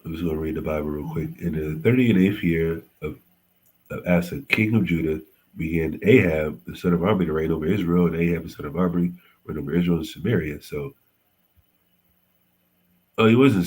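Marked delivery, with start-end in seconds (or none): 1.4-10.6 scripture reading. Acted. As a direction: read the verse out carefully. Reads Bible verse aloud.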